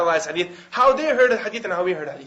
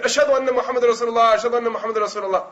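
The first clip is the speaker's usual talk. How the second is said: louder adhan; 3 semitones higher than usual. Retold or imitated. Boy obeying the order to be louder, raised call. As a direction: ring the testimony out clearly.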